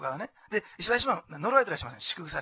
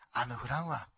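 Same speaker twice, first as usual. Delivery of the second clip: quick Osaka-dialect grumble of Noah, mild; Osaka dialect slip; 5 semitones lower, 3 dB quieter, slower than usual. Retold or imitated. Preacher voicing Noah's complaint about no rain, in light Osaka dialect. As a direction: slip into Kansai speech as the doubting Noah. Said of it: "ちょっと大阪弁になりました".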